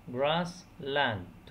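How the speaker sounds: "Grass land" as two separate syllables; "Grass land" in two slow, detached beats; split into syllables. Shown as a demonstration. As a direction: pause clearly between "Grass" and "land". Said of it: "two syllables".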